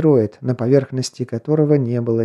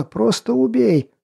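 high, slow, desperate cry; frantic begging; 10 semitones higher, slower than usual. Acted. Prisoner begs to be killed.

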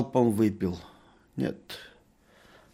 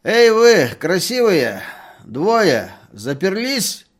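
put-on very loud, high drunken shout; drunken yell; 9 semitones higher, 11 dB louder, slower than usual. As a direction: bellow at the locked door. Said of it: "вытаращил глаза и закричал". (пьяный крик, очень громко и высоко)

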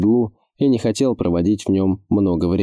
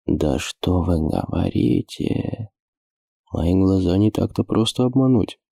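boastful. Acted. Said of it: "хвастливо добавил лорд Пуль".

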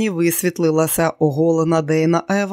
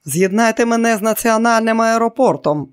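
loud, higher barked order; a general roaring an order; thundering general; 6 semitones higher, 4 dB louder than usual. A narrator's reading. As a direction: thunder the command down the line. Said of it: "прогримів генерал".

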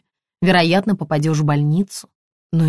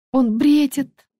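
tearful; 8 semitones higher, slower than usual. A narrator's reading. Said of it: "заплакала Лена".

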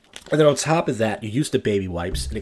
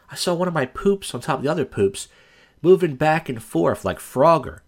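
normal talking voice

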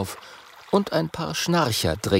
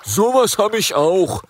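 higher, louder trunk-dragon call; 9 semitones higher, 5 dB louder than usual. Acted. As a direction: shout it across the crowd. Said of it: "ruft ein Rüsseldrache".

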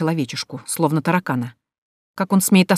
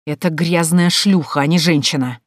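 hissed. Acted. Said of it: "прошипел лорд Крофт".

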